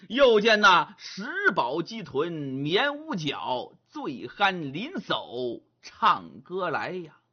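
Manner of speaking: slow, rhythmic recital of scenery verse; storyteller verse recital. A narrator's reading. Storyteller paints the village scene, slow rhythmic recital. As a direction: chant the landscape like a storyteller.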